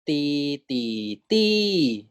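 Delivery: teacher drilling the rising tone; second tone demo. Shown as a demonstration. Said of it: "第二标 gives you 第二声".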